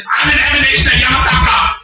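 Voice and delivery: high-pitched mock indignation; naughty little Rinpoche. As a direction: squeal a protest like a small boy. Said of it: "a little naughty one, small one".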